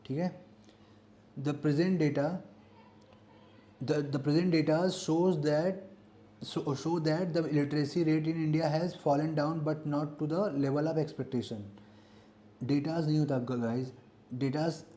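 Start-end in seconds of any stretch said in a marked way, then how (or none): 1.4-11.6 very slow, word by word, like dictating to a class; slow dictation reading. Shown as a demonstration. Teacher reads a grammar question aloud to students, slow and deliberate. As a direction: read the exam sentence out slowly so students can follow.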